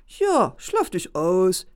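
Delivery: slow, sly voice with a grin; grinning fox. A narrator's reading. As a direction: savour the trick, grinning. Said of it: "grinste der Fuchs".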